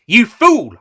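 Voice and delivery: the Doctor shouting at Missy for her recklessness. A narrator's reading. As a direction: bark it out in alarm.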